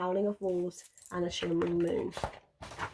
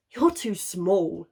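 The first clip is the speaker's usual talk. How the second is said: laughed; 7 dB louder, much slower than usual. A narrator's reading. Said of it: "laughed the wolves".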